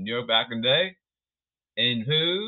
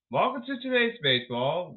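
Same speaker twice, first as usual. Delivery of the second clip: sarcastic; 4 semitones higher than usual. Acted. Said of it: "I'll be sarcastic here".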